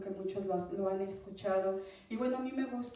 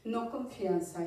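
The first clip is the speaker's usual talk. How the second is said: slow correction. Shown as a demonstration. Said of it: "perdón, fortaleza".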